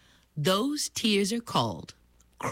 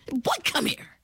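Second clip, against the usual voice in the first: beckoning mother; 9 semitones higher than usual. Acted. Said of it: "she whispered in his ear".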